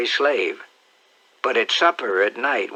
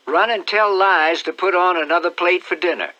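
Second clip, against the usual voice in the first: put-on high, bright-eyed old aunt calling out; a fussy country aunt, curious and excited; high-pitched eager aunt peering out the window; Aunt Sally; 7 semitones higher, 4 dB louder than usual. Aunt Sally orders child.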